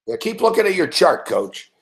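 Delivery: lightly mocking coach voice, trailing off on the last word; a hint of a sarcastic sideline coach; mild mock jab at a clueless coach, close to his own voice; Bill O'Brien impression. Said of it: "my impression of fucking Bill O'Brien".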